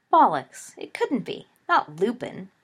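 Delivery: a loud scoffing Bollocks; scoffing outburst. Acted. James scoffing loudly at Sirius's suspicion. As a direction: blurt it out in disbelief. James dismissing the werewolf idea.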